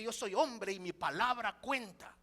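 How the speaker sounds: proud macho statement, said firmly; macho boast. Retold or imitated. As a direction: declare your word counts like a proud man. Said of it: "el acento norteño". (afirmación machista, firme)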